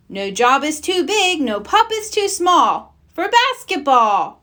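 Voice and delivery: rally the pups; rallying motto. Acted. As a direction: hero leader's cheerful slogan. Ryder's motto.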